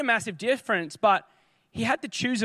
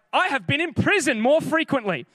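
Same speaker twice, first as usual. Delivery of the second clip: lightly voiced Paul listing his hardships, a bit higher and pressing on; Paul's boast; 4 semitones higher than usual. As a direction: read it as Paul piling up his trials, slightly raised and intense. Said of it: "And he's like".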